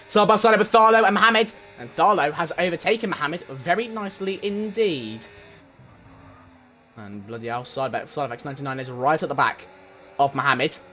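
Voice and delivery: fast, lively play-by-play calling the race; race commentary. Acted. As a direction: call every overtake like a live broadcaster.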